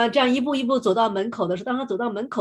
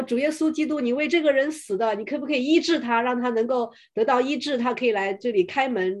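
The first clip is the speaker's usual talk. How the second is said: higher-pitched retold prayer; mildly raised prayer; 4 semitones higher than usual. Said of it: "很大声地祷告说".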